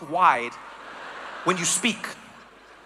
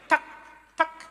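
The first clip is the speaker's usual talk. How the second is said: mock Swedish; 6 semitones higher, slower than usual. Comic mocking how Swedish sounds to him. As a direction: spit out fake Swedish syllables short and tight. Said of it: "It's just got that, like".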